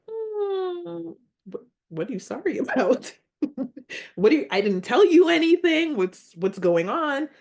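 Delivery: high, fast, baffled questioning with a laugh; confused demand for an explanation, half laughing; retold bewilderment. Acting out confusion at unexpected sympathy.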